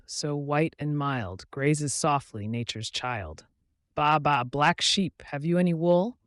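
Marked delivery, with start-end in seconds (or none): 3.9-6.2 lightly voiced sheep, higher and louder; gentle sheep bleat. A sheep asking gently for wool, lightly voiced. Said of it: "the sheep bleated gently".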